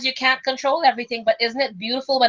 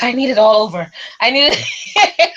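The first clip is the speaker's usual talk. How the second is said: louder, breaking into laughter; amused exclamation; 5 dB louder than usual. Real, not acted. Host confessing she needs her oils all over, amused and laughing. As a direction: let a laugh take over the end. Joking about needing it everywhere.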